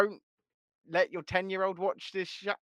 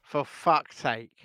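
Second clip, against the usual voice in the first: slow exasperated groan; 3 semitones lower, 5 dB louder, slower than usual. Real, not acted. Co-host leaves the stream again.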